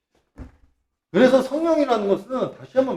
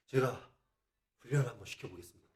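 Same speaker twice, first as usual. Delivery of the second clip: softer, quick deferential promise; humble reply; 6 semitones lower, 19 dB quieter, faster than usual. Retold or imitated. Preacher replies humbly to the Father, softer and quick. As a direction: answer meekly and quickly. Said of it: "이런다고".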